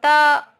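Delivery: त alone, loud and held; sounded out. Shown as a demonstration. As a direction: punch out त as its own syllable. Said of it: "ये कैसे उच्चारण होता है".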